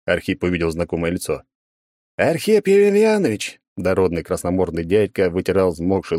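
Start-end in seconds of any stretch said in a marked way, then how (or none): 2.2-3.6 drawn-out higher shout of relief; loud relieved call. Acted. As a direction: call his name across the yard, relieved. Policeman calls out in relief.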